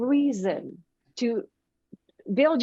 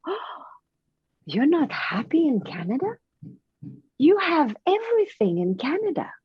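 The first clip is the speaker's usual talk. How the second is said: put-on little boy, surprised; 5 semitones higher than usual. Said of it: "he said".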